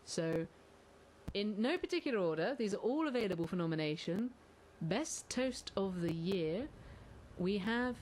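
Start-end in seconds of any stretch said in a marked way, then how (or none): 4.8-6.7 slow announcement. Acted. Host announcing the category.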